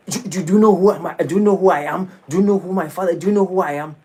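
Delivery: high, loud, indignant "do you know who I am"; arrogant outburst. Retold or imitated. Proud man in an argument demanding respect, loud and indignant. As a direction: bluster like an offended big shot. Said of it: "the person goes like".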